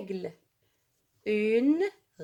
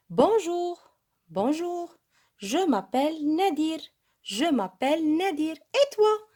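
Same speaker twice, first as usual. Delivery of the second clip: pupil introducing himself; 5 semitones higher, slower than usual. Acted. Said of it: "التلميذ يعرف عن نفسه".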